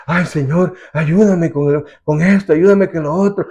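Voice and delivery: a worried believer begging the Lord, pitch up a little; anxious pleading prayer. Retold or imitated. Preacher mimics a worried churchgoer praying, anxious plea. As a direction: pray in a fretful rush of requests. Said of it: "si usted viene".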